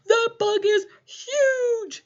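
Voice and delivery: high, laughing That bug is huge; laughing exclamation. Shown as a demonstration. Teacher saying it with the class and breaking into laughter. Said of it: "Say it with me".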